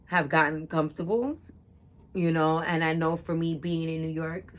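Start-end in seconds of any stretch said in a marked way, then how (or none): 2.1-4.5 talking while sipping tea; words around a sip of tea; sipping hot tea. Real, not acted. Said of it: "sorry, sipping tea".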